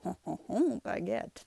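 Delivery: hammed-up French chuckle and word; mock French accent. Joking about a Frenchman holding a baguette, mock French accent. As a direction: put on a silly French accent. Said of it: "That's my French".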